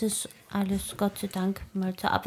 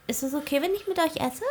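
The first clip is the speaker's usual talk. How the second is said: put-on shy tavern girl; 8 semitones higher than usual. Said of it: "sagt sie".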